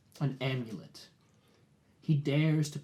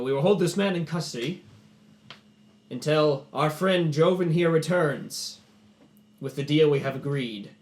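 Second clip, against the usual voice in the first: snarling repeat; 3 semitones higher, 7 dB louder than usual. Acted. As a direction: repeat it with foam at the mouth. Arano repeats the custody line.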